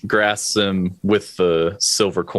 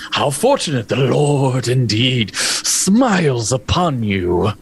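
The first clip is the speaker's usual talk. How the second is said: sinister priest; 4 semitones higher than usual. Acted. Priest questioning boy.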